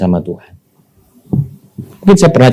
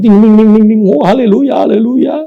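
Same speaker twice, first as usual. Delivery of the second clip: high, loud joyful ting ting haleluya; jubilant outburst; 11 semitones higher, 4 dB louder than usual. Retold or imitated. Preacher reliving opening the money envelope, high and jubilant. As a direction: burst out in giddy delight.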